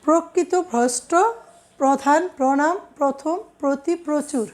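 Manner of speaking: প্রথম as "prothom", প্রচুর as "prochur"; closed o after pr in প্রধান, প্রণাম, প্রতি; first vowel as o. Shown as a demonstration. Teacher continuing rule examples, প্র said "pro". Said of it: "আদ্য অটাও ওকারের মতো উচ্চারিত হয়".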